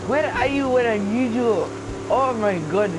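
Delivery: high, loud flustered teacher voice; a frazzled teacher shrieking at the class; hammed-up high teacher voice; Miss Morelli impression. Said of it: "the Miss Morelli voice?".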